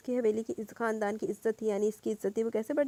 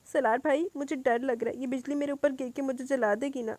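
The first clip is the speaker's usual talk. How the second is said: put-on scared little girl; 4 semitones higher, 4 dB louder than usual. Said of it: "آٹھ سالہ روحا نے روتے ہوئے کہا".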